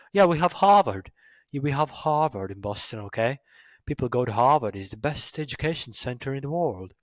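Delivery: mock Boston local, punched opening; Boston accent. Shown as a demonstration. A Boston local bragging about Harvard, mock Boston accent. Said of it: "Boston people really talk like this".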